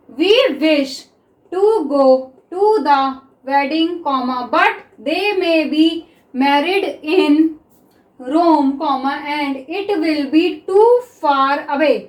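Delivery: very slow, word-by-word dictation read. Shown as a demonstration. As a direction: read it out slowly so students can write it down. Dictation reading of sentence. (धीमी, शब्द-दर-शब्द dictation)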